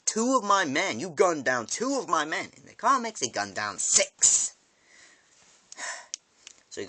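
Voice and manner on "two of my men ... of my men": louder, higher accusing; angry Negan. Retold or imitated. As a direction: hurl the charge at the kid. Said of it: "He goes".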